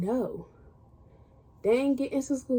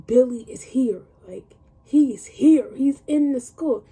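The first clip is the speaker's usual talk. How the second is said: alarmed call; 7 dB louder than usual. Retold or imitated. Warning her best friend that Billy is at the school, loud and alarmed.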